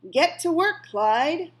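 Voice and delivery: high, loud command to get working; sharp order. A narrator's reading. Old woman orders the rabbit to work, loud and high. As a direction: bark the order at the scarecrow rabbit.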